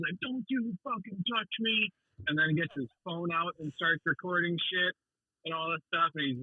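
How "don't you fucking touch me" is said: pitched-up, stretched-out impression of someone losing it; retold angry yell. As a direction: imitate an outraged rider yelling, slow and drawn out. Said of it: "he starts yelling at him".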